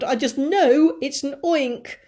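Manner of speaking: high, loud panicked fire chief; panicky fire chief. Acted. Fire chief shrieking his certainty to the crowd. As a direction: shout it like he's certain of doom.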